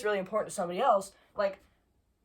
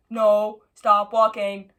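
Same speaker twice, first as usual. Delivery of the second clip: loud telling off; scolding the bug; 11 dB louder, much slower than usual. Real, not acted. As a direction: firmly order it to stop.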